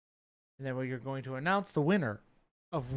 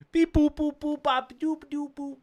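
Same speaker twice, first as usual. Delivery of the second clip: high beeping robot voice; 10 semitones higher, 3 dB louder than usual. Pretend. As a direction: beep like a silly robot. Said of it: "That's my A I".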